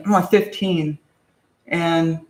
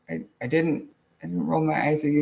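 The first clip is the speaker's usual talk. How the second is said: quiet, halting protest; timid denial; 2 semitones lower, 6 dB quieter than usual. Retold or imitated. Boy quietly denying to his angry father, frightened. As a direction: mumble it, scared to be caught. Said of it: "I was like".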